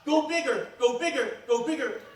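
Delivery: high, loud repeated push that gradually settles; insistent urging, easing off. Retold or imitated. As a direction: keep pushing him, starting high and loud, then easing down. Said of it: "He kept going".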